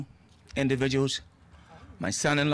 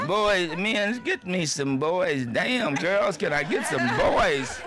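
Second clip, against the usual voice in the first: laughing plea; 2 semitones higher, much slower than usual. Real, not acted. Joking call for boys.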